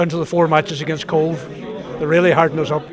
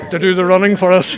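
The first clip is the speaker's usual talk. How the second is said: laughing; 2 semitones higher, 5 dB louder than usual. Real, not acted. Laughing at his own joke.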